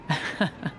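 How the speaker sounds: short, soft laugh; soft chuckle. Acted. Merchant after giving goods away, soft chuckle. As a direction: chuckle quietly to yourself.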